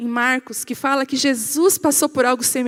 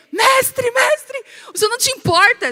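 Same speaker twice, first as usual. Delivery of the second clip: much higher and louder, shouting "Mestre" twice; frantic shout; 11 semitones higher, 4 dB louder than usual. Retold or imitated. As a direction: yell to rouse him in the storm. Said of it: "Os discípulos pra ele".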